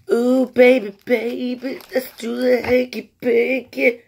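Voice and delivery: high, loud, slow mock seduction; seductive voice. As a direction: croon it like a hammy lover. Joking seductive line to food.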